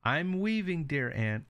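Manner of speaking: high, light answering voice; girl's reply. Acted. Girl answers aunt.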